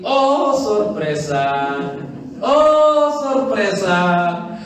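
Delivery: mock surprise. Real, not acted. Ironic reveal to congregation.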